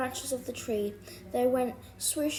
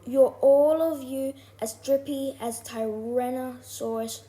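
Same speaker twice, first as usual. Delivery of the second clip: loud, firm telling-off; scolding dad; 5 dB louder than usual. A narrator's reading. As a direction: berate the whole family like a stern dad. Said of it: "and Dad said".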